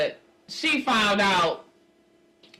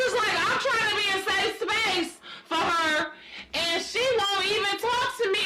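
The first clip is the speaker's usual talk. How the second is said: laughing; 9 semitones higher than usual. Real, not acted. Laughing while retelling.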